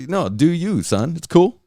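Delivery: very high strained mock parent voice; mock permissive parent. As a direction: squeak it out, a parent forcing approval. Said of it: "you're like".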